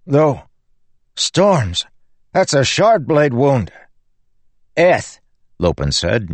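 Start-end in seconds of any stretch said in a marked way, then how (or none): 0.1-3.7 high, loud and alarmed; alarmed exclamation. A narrator's reading. Pete shocked by a Shardblade wound, high and loud. 4.7-5.2 anxious call. A narrator's reading. Lopen finds third body.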